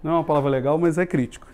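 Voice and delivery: usual speaking voice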